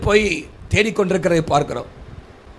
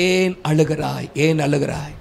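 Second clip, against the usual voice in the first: low, slowed, gently voiced question; gentle quoted question; 6 semitones lower, 3 dB quieter, slower than usual. Risen Jesus asks weeping Mary why she cries, gently. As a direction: ask it softly and low, as if consoling.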